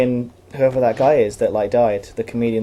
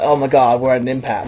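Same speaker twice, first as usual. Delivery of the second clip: lightly imitated American accent; mock an American saying it; 3 dB louder than usual. Imitating Americans who announce an impasse, American accent. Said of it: "when Americans say it".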